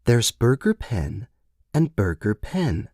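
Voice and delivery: "Burger Pen" first rising, then "and" stressed; slow, hushed contrast of "Burger Pen"; parental stress contrast. A narrator's reading. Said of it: "Her voice had dropped, like parent to child".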